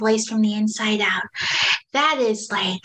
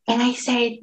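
ordinary delivery

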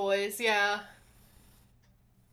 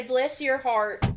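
slow Southern "Bless your hearts"; Southern accent; slower than usual. Shown as a demonstration. Player warms up a Southern accent with a stock phrase. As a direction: drawl it like a Georgia lady. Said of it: "all I have to do is say".

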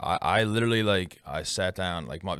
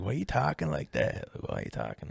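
put-on girlfriend quote; 7 semitones higher, 4 dB quieter than usual. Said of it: "She's like".

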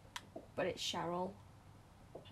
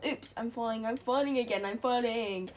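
louder alarmed cry of falling; 5 dB louder than usual. Real, not acted. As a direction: react as you fall. Falling in game.

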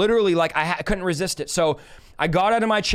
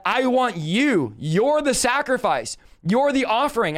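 higher, slow and emphatic; emphatic divine call; 4 semitones higher, slower than usual. Retold or imitated. Preacher quotes God calling him to be the offering, emphatic. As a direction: deliver it as a solemn declaration, drawn out.

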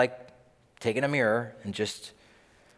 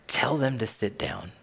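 heavy sigh, then a patient instruction; weary frustration; 2 semitones lower than usual. Acted. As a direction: sigh it out, holding back frustration. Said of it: "he got a little frustrated".

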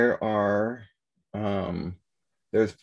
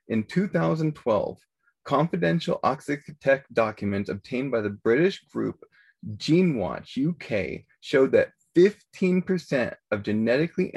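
reading out a news exposé; investigative news exposé; 2 semitones higher than usual. Acted. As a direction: read the findings like a reporter. Reads the exposé article.

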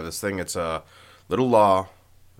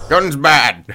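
laughing; 8 semitones higher, 12 dB louder than usual. Pretend. Repeating caveman slogan laughing.

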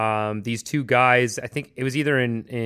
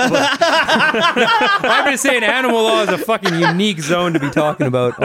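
excited; 10 semitones higher, 6 dB louder than usual. Real, not acted. Laughing emphatic exclamation.

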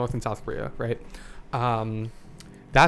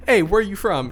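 loud, bright hello, pitched up; mock cheery greeting; 7 semitones higher, 7 dB louder than usual. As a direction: call out a friendly hey across the room. Greeting coworkers, acted loud.

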